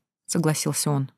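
ordinary delivery

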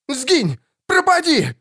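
high shrieked banishment; shrieking priest. A narrator's reading. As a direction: shriek it at the devil. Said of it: "взвизгнул жрец".

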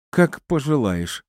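piqued, dismissive woman; huffy. A narrator's reading. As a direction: snort it with wounded disdain. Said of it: "фыркнула она".

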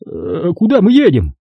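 high, smug official voice; pompous bureaucrat talking down; notary's voice. A narrator's reading. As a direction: play the fat notary, condescending and self-important.

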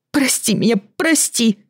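high tearful begging, rising; sobbing plea. Acted. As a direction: beg through sobs. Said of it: "уже в голос рыдала Даша". (рыдая, умоляюще)

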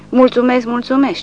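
high, chirpy repeated thanks; dazed general thanking the sergeant, chirping. A narrator's reading. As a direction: twitter it out, dazed. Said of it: "ciripește generalul".

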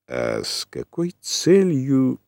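slow, breaking off unfinished; cut off mid word. A narrator's reading. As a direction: stop short mid-sentence. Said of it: "Он замолчал на полуслове". (оборвав на полуслове)

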